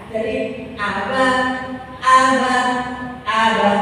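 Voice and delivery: each "aba" short and crisp. Shown as a demonstration. Teacher repeating short "aba" for the women. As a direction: keep every "aba" short. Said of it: "tidak boleh molor".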